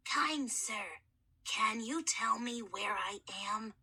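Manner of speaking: put-on a boy's voice unused for millennia; gentle, courteous mummy soothing a scared boy; hoarse mummy kid. Mummy voice held.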